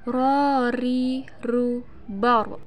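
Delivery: measured recitation model; demonstration drill. Shown as a demonstration. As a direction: stretch each vowel before the r drill moves on. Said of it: "Perhatikan contoh berikut".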